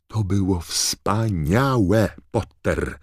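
high, slow, emphatic praise; McGonagall calling out. A narrator's reading. Teacher to Harry getting off his broom, exclaiming praise. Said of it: "zawołała profesor McGonagall".

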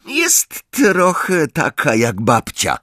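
dragging, dejected voice; resigned. A narrator's reading. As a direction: answer with weary resignation. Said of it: "odpowiedział zrezygnowanym tonem".

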